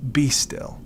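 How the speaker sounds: soft whisper, be still; whispered command. Acted. Jesus hushing the wind and waves, whispered. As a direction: hush the storm with a whisper.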